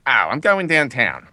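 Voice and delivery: slow, tired Philadelphia drawl; tipsy, worn-out Philadelphia accent; thick Philadelphia accent. Acted. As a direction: say it like a tired Philadelphian after a few beers. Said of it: "a thick Philadelphia accent when you're really tired".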